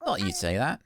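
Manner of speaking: lightly voiced game character, bouncy intonation; Sprocket. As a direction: play a chummy tinkerer with a put-on accent. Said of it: "I think I've changed Sprocket's accent".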